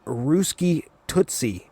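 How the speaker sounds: slow, drawn-out mock flirt; mock Wheeler. Wheeler flirting with Linka in the jet, slow teasing drawl. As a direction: drag out the pet name, teasing. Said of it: "and Wheeler goes".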